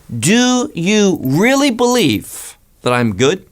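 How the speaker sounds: a searching challenge in Messiah's voice; lightly voiced Messiah challenging the young man; voicing Messiah's challenge. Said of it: "he wants to say".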